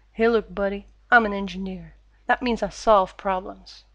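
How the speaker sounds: imitated Texan accent, lightly put on; Engineer's Texan accent. Shown as a demonstration. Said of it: "imitation of a Texan accent".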